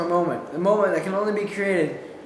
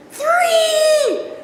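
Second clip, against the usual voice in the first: high, loud battle yell; shouted three; 5 dB louder than usual. Retold or imitated. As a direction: burst out with the count. Shouting launch of attack.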